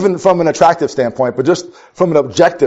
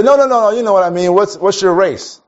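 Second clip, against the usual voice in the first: pushy stranger; 3 semitones higher than usual. Retold or imitated.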